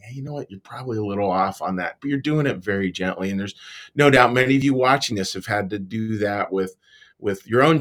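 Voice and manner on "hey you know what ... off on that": quiet, tactful parental correction; gentle. Acted. Parent tactfully correcting an upset child, gentle. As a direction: break it softly to a child. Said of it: "that's a gentle way of just saying".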